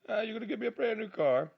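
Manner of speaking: high, put-on thrilled squeal; mock amazement. Car buyer offered a new car, mock amazement.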